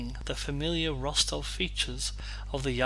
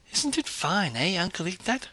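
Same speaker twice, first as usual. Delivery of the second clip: put-on the boy; 6 semitones higher than usual. A narrator's reading. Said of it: "said the boy".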